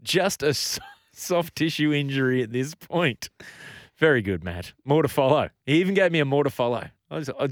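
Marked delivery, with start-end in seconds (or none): 0.0-3.3 lightly mock news bulletin; breaking news read. Radio host relaying breaking injury news, newsreader style. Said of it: "Matt's given us more breaking news".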